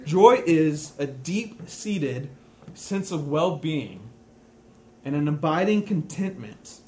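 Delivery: slow, deliberate definition, each phrase set apart; said slowly. Shown as a demonstration. Preacher to congregation, defining joy slowly. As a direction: spell out the definition slowly, pausing between phrases. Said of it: "I'll say it slowly".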